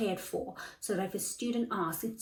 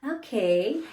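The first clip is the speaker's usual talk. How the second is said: slow, higher, friendly hmm; warm interest; 4 semitones higher, 4 dB louder, much slower than usual. Retold or imitated. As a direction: show genuine interest in the pet. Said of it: "I'm like".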